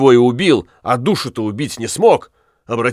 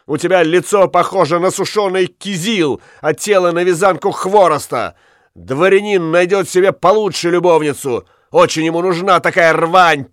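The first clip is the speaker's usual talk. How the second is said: scornful insult; 5 semitones higher than usual. Acted. Accused man mocking the witch in court, scornful. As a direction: sneer at her looks.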